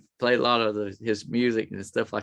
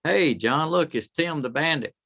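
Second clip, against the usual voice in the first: imitating a call down from above, pitched up; mild holler to get someone's attention; retold holler; 5 semitones higher than usual. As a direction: call down to a friend, lightly acted. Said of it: "he hollers down and says".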